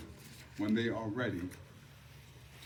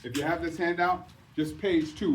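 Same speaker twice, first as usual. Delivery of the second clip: teacher voice; 2 semitones higher than usual. Shown as a demonstration. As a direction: address the room like a teacher. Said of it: "I have to put on my teacher voice".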